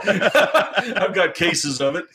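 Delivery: high, drawn-out laughing boast; amused, voice lifted by a laugh. Real, not acted. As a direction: say it through laughter, slowly. Joking about the prize.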